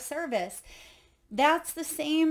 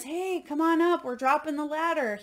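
higher-pitched mock hail from a rescuer; calling down; 4 semitones higher than usual. Helicopter crew to man on tower, mild retold call. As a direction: lightly imitate calling out to someone stranded. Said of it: "speaking through the microphone and says".

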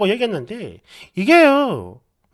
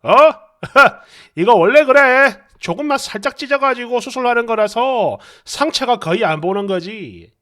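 chuckle, then explain breezily; lightly acted grinning husband; 3 dB louder than usual. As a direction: brush it off with a little laugh. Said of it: "남편이 웃는 얼굴로".

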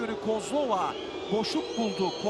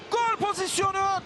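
excited shout; 5 semitones higher than usual. Real, not acted. Near miss, commentator shouts.

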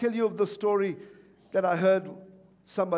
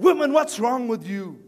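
louder, higher retold scolding; mock exasperation; 5 semitones higher, 6 dB louder than usual. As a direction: act out a husband losing patience. Exasperated husband scolds crying wife.

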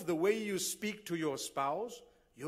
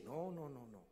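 dismissive relative refusing; 4 semitones lower, 4 dB quieter than usual. Retold or imitated. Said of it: "What do you say?".

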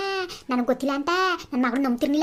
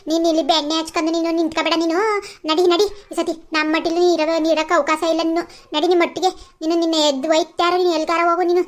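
angry dismissal. Acted. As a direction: shoo her away in anger. Throwing the sister-in-law out. (ನಾದಿನಿಯನ್ನು ಮನೆಯಿಂದ ಓಡಿಸುವ ಜೋರು ಸಿಟ್ಟು)

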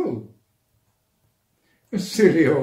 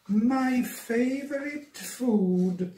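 hungry monster; 9 semitones higher, slower than usual. Acted. Gruffalo slow, menacing.

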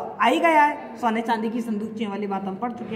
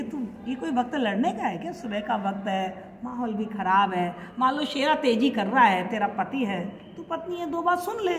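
soft, gentle scolding; quiet affectionate coaxing; lovingly; 3 semitones lower, 4 dB quieter than usual. Retold or imitated. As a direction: soothe her softly like a mother. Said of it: "तो वो बड़े प्यार से".

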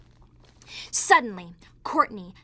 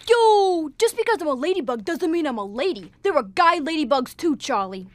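streetwise bug with swagger; Bruce's voice. Retold or imitated. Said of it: "he talked like this".

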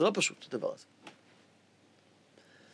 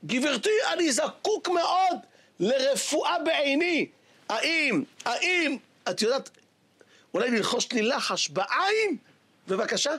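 pleading rabbi; 5 semitones higher, slower than usual. Acted.

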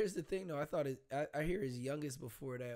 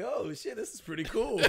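excited amazement; 9 semitones higher, 6 dB louder than usual. Retold or imitated. Imitating the old man.

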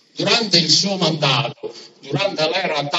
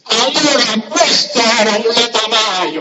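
booming balcony speech; 5 semitones higher, 5 dB louder than usual. Real, not acted. Rally speech climax, crowd noise.

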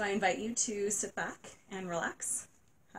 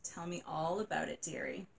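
sympathetic; 2 semitones lower, 4 dB quieter than usual. Acted. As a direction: coax it gently out of her. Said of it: "said Aunt Margaret sympathetically".

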